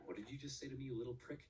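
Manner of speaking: menacing. Acted. Napoleon snaps at a critic.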